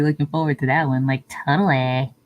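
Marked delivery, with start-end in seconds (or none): 1.1-2.1 light mock Valley Girl accent. Streamer playfully looking forward to that one, light Valley Girl. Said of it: "Sound like a Valley Girl".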